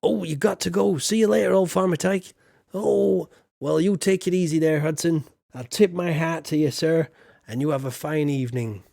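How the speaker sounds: lightly voiced country gent tipping his hat; a hint of a cheery rustic; hearty farmer greeting. Greeting chat as Farmer Tyke.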